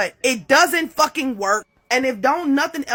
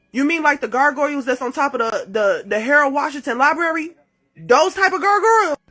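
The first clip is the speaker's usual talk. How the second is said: incredulous question; 4 semitones higher, 4 dB louder than usual. Retold or imitated.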